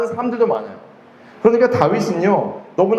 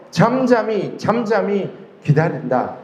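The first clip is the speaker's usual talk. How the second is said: calm, slow; 2 semitones higher, slower than usual. Real, not acted. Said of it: "preacher models calm waiting".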